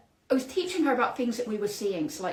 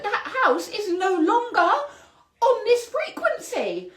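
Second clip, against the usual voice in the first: high, louder, laughing half-crying; laughing through tears; 10 semitones higher, 5 dB louder than usual. Real, not acted. Host telling viewers the house is gone, laughing near tears. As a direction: let it crack between laugh and cry.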